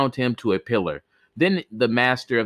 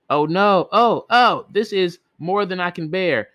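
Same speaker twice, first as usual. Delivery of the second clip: agonised cry; 8 semitones higher than usual. Acted. Girl dying while being scorched.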